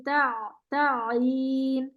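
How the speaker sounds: تا تعین slow, ت kept thin. Shown as a demonstration. Teacher drills the thin ta slowly. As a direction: keep the ت of تعین thin and light. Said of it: "تا باریک رہے گا".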